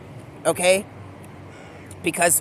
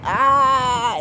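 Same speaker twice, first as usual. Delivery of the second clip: mock awakening cry; 4 semitones higher, 3 dB louder than usual. Acts out Jim Carrey awakening.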